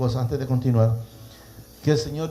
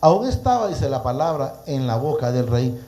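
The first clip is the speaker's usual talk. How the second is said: emphatic, raised opening to a verse; preacher reading aloud, phrase by phrase; scripture reading. Acted. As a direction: proclaim the verse to listeners. Reads scripture aloud to listeners.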